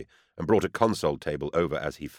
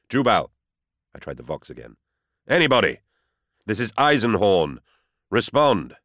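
louder, higher call into the radio; urgent shout; 4 semitones higher, 6 dB louder than usual. Acted. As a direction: bark orders into the vox. Shouting into the vox.

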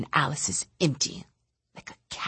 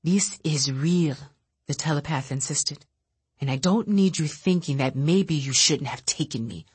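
bitter rant. Acted. Bitter telepath lashing out quietly.

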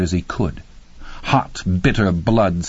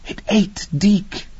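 frightened whisper; 11 semitones higher, slower than usual. A narrator's reading. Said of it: "she whispered".

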